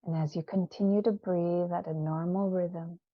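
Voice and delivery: unhurried, soothing guided visualisation; guided meditation. Acted. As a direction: lead listeners gently inward, leaving space after each phrase. Leads a guided visioning meditation.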